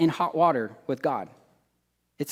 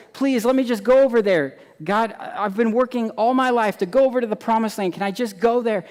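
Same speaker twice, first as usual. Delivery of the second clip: pleading Moses; 7 semitones higher than usual. Acted. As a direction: beg like a tired old man longing for home. Moses begs God.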